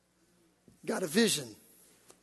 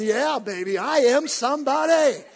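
cocky, self-assured boast; swagger; 5 semitones higher, 6 dB louder than usual. Acted. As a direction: strut it out loud. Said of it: "He got his swagger on".

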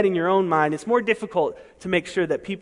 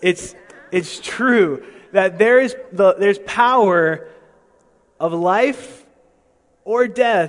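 louder and slow, stressing power, life and death; slow, emphatic preaching; 6 dB louder, slower than usual. Acted. Preacher hammering the key phrase.

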